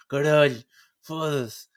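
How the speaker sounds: loud frustrated curse; exasperated swearing. Retold or imitated. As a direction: blurt out a curse.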